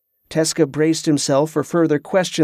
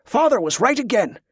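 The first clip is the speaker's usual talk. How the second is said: higher, gleeful crowing over the prisoner; gloating triumph; 6 semitones higher than usual. A narrator's reading. Captor gloats to prisoner he guessed right, gleeful crowing. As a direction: crow it like you just won.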